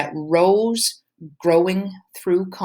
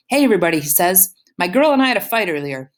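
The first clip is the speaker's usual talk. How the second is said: loud, higher mic announcement; announcing over speakers; 3 semitones higher, 4 dB louder, much faster than usual. Acted. Boyfriend grabbing the DJ mic to address the prom crowd, loud and high. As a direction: call out to the whole room.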